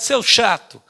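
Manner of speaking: put-on a touch of childish pique; mild mock-angry child retort; annoyed boy. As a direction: snap it like a sulky kid. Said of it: "o menino ficou enfesado".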